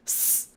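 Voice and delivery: soft hissing demo. Shown as a demonstration. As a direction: let out a quiet snake hiss. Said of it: "they can just go".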